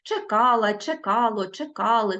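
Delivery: чекала, чекало, чекали stressed on КА; stress on root. Shown as a demonstration. Teacher shows pupils root stress, stressing КА in чекала, чекало, чекали. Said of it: "наголос падає на корінь".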